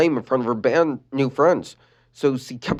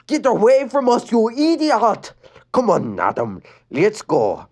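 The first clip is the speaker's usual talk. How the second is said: put-on loud high snapping girl; mean girl yelling; angry shout; 10 semitones higher, 3 dB louder, slower than usual. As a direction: shove her off. Rebecca shouting.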